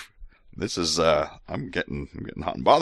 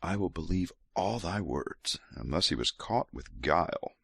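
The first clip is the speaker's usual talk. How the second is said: soft, seductive scripture reading; sexy voice; 6 dB quieter than usual. Acted. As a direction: murmur each line like a lover's offer. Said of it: "gonna keep going with sexy voice".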